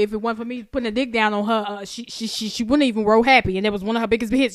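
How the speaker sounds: loud pleading to Your Honor; mock courtroom plea. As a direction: beg the judge, playing it up. Mock testimony to a judge.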